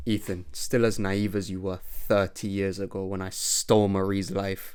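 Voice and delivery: lightly voiced villain, quiet and smug; a hint of villain voice. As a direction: taunt the old partner softly.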